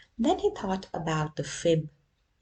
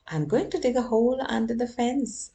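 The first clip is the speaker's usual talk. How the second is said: excited plan; 5 semitones higher, 4 dB louder, faster than usual. Acted.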